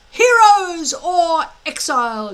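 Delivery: the watching tribes yelling the motto; crowd yelling. Acted. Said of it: "yelled the watching hooligans".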